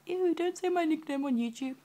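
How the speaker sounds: imitating a squeamish boyfriend, high-pitched; mock grossed-out partner. Girlfriend imitates embarrassed partner on her video, high mock whine. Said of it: "And I know you're like".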